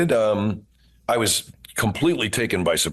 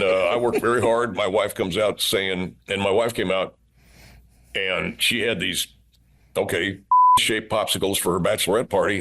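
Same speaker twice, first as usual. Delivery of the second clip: Steve Boesel voice. Acted. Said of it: "as soon as I went into that voice".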